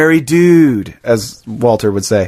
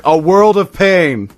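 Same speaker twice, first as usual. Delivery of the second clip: quoting Walter; 5 semitones higher, much slower than usual. Retold or imitated. Repeating Walter's threat.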